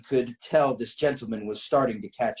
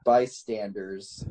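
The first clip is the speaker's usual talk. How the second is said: slow repeat; 3 semitones lower, much slower than usual. Real, not acted. Repeats the doubted word slowly.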